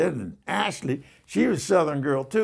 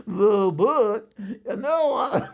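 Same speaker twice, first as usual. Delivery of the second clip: laughing; 5 semitones higher, slower than usual. Real, not acted. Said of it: "we were rolling in that cab laughing".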